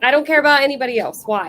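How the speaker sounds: fast, chewing while talking; rushed words through a mouthful; mouth full. Real, not acted. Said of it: "are you eating Chinese food?".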